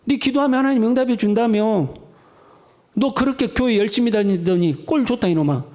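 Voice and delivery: taunting, scornful needling; jeering mockery. Neighbours taunting a believer whose God has not helped, mocking. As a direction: jeer at a struggling believer. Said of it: "사람들이 나를 조롱하는 거죠".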